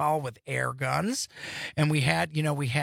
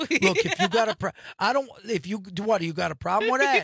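tough guy voice; 3 semitones higher than usual. Acted. Mock tough New Yorker bit.

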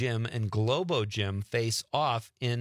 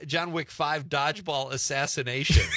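laughing; 3 semitones higher than usual. Real, not acted. Laughing at the fake answer.

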